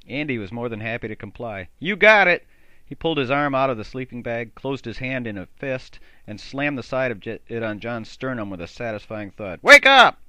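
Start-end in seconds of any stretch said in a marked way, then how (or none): 1.8-2.5 eager. Acted. Eager reply before striking John. 9.6-10.2 loud wake-up yell; shouting. Acted. Andy punches sleeping John awake.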